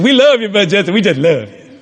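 a hint of a gushing fan; imitated gushing wife. Wife gushes at the preacher.

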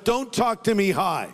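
unfriendly warning. Retold or imitated. Preacher explains his reply to stranger, unfriendly. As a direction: push hard, then drop on the greeting. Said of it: "it was not a friendly hi".

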